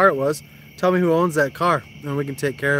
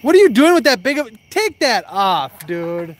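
exasperated scold; 3 semitones higher, 4 dB louder than usual. Real, not acted. Scolding friend's oversized bait.

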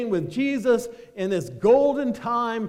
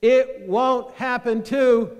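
congregation call-out; 4 semitones higher, 5 dB louder, slower than usual. Shown as a demonstration. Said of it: "you're gonna shout out the last word".

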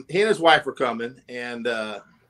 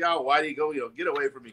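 dismissive; 4 semitones lower, 5 dB quieter, faster than usual. Retold or imitated. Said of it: "He just blew it off".

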